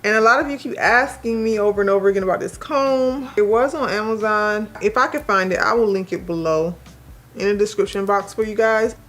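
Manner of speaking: talking with retainers in; slightly muffled speech. Real, not acted. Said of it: "if I sound muffled, again, I am wearing my retainers".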